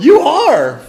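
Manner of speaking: high, very loud whoop; big drawn-out storybook yell; excited shout. A narrator's reading. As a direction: cheer them on at full voice. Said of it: "shouted Tommy".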